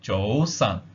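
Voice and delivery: "Zhou san" said as a careful Cantonese demo; Cantonese good morning. Shown as a demonstration. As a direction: model "Zhou san" for learners. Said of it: "Good morning".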